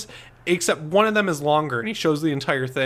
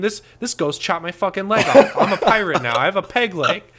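laughing through a hammed-up tall tale, louder; mock ghost victim; 3 semitones higher, 3 dB louder than usual. Pretending to be a homeowner selling a ghost story, laughing. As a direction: giggle through a ridiculous ghost claim. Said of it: "I'd be saying".

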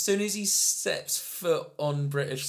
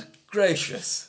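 slow, higher-pitched genteel exclamation; drawn-out British astonishment, hammed up; mock shocked Brit; 5 semitones higher, slower than usual. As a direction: play a scandalised Englishman.

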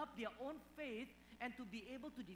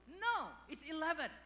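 put-on higher, louder insistent child voice; stubborn kid; 7 semitones higher, 6 dB louder than usual. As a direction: insist like a stubborn little boy. Son arguing with father.

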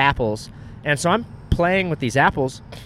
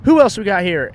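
imitated camera host; 4 semitones higher, 7 dB louder than usual. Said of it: "then she was like".

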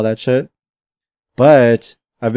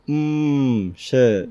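monotone; 5 dB quieter than usual. Real, not acted. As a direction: say it with no lift at all. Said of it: "That sounded so monotone".

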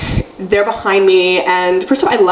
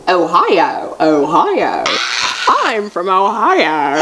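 fake American accent; much slower than usual. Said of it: "pretending to talk in an American accent".

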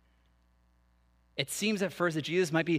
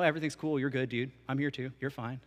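imitating a chill dude, dropping lower and softer; laid-back dude god; 4 semitones lower, 5 dB quieter than usual. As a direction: play an easygoing surfer-type god, fading away. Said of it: "a generic deity that's kinda like the dude".

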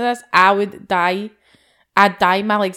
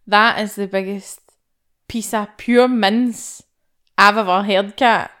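mock outrage; 6 dB louder, much slower than usual. Real, not acted.

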